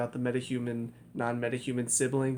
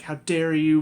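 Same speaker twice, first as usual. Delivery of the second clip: a burst of louder imitated anger; harsh mock scolding; 2 semitones higher, 7 dB louder than usual. Retelling Iris scolding Nora, imitated harsh outburst. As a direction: fling it at her like a mock rebuke. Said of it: "she says all these harsh things".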